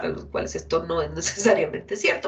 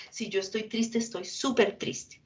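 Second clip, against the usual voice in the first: very sad; 6 dB quieter than usual. Shown as a demonstration. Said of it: "la expresión emocional es gigante".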